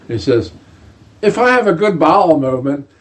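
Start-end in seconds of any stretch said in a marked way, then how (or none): 1.2-2.9 laughing while quoting. Retold or imitated. General's bowel movement advice retold.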